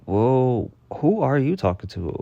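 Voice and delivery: indignant comeback. Retold or imitated. Worker confronting a rude customer over her coworker, indignant. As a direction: push back, standing up for a coworker.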